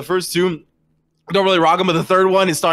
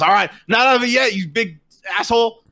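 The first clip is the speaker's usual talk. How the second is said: higher, acted trash talk; defiant comeback; 5 semitones higher than usual. Game master as a battered foe still in the fight, defiant. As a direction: throw it back at the opponent, defiant. Beaten foe defies the player.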